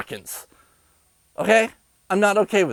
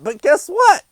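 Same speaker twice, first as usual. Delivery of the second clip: heated rant; 10 semitones higher, 4 dB louder than usual. Real, not acted.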